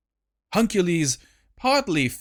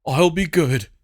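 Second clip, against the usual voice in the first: overeager; 2 semitones higher, 3 dB louder than usual. Acted. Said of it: "nodding his head ridiculously".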